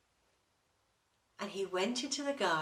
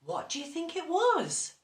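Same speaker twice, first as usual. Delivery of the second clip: put-on much higher, bright question to children; higher playful question; teasing question; 9 semitones higher, 5 dB louder than usual. A narrator's reading. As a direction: ask the kids to guess. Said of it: "asks listening children".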